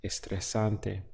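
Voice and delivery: es estresante said slowly, each syllable clear; slow Spanish demo. Shown as a demonstration. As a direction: model es estresante slowly for learners. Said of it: "would be".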